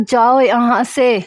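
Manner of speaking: drawn-out loud order to leave; husband throwing wife out of his room; stern, slow and loud. Acted. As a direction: order her out, slowly and hard. He throws her out.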